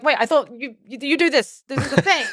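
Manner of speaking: high, laughing incredulous retelling; laughing disbelief. Retold or imitated. Telling the host how baffled he was, laughing and incredulous. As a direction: laugh through the disbelief as you replay it.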